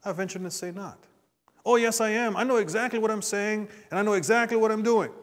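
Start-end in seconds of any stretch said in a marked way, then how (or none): 1.6-5.1 higher and louder, indignant insistence; hammed-up indignant protest; mock angry defiance. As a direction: play the hothead who swears he's in control. Voicing an angry, defiant person.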